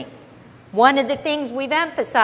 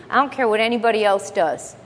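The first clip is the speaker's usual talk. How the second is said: defiant attitude; faster than usual. Shown as a demonstration. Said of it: "you have to take that attitude".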